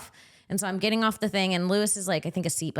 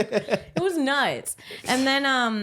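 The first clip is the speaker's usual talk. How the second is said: laughing disbelief; 7 semitones higher, much slower than usual. Real, not acted.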